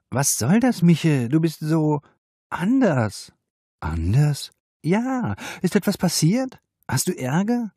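a worried colleague pressing him, pitched high; upset young woman. A narrator's reading. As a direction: Cosima confronting an odd colleague, tense and high. Cosima voiced in story.

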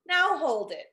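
sharp, loud scolding queen. Acted. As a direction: stop him cold, scolding. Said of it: "Vashti scolded".

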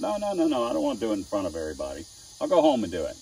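fluster like a bashful beginner; mock bashful student; imitated shy student. Student refusing, voiced.

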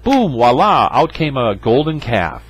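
a hint of a showy excuse; mock Aaron excuse. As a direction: ham up the boom voila. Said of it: "I love that line".

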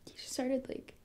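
hushed, broken-up near whisper; halting and breathy-quiet, with long pauses; faltering disclosure. Acted. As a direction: struggle to say it, voice dropping away. Falters while recounting being touched.

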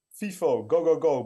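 chanted out like a football supporter; mild bellowing. A narrator's reading. Two young fans cheer from the stands, mildly bellowing. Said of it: "brulde Wout en Maud".

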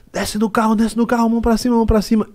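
high, urgent mock order; retold command. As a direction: order him out of the car. Guard ordering him out. (segurança mandando descer do carro, em tom agudo)

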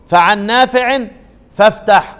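فعن نافع فافتح said briskly, no drawing out; quick run-through. Shown as a demonstration. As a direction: rush through the half-verse. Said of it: "بس معايا بسرعة". (قراءة سريعة دون مد)

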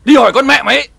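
high, loud spat-out abuse; shrill village quarrel cursing; furious insult. Acted. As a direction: hurl it at her in rage. Wife hurls insults in quarrel.

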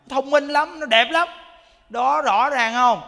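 loud, delighted emphasis; excited praise. Real, not acted. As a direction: proudly raise the voice to show the miracle. Praising the healed children.

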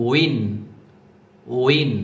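উইন with a rounded w onset, each said separately; teacher's isolated, round-lipped উইন; rounded-lip pronunciation. Shown as a demonstration. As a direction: model উইন carefully, lips rounded. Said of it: "এভাবে উচ্চারণ করবেন".

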